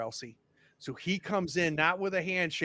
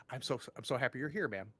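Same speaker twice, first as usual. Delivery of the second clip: cautious mayor; 2 semitones lower, 5 dB quieter, faster than usual. Acted. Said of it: "he pauses and sees the look on your face".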